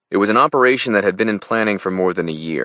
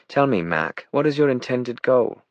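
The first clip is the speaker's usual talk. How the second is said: upper-class British questioning, rising high; British accent, pitched up on the question; 8 semitones higher than usual. A narrator's reading. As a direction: press him in aristocratic British English. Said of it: "in her British accent".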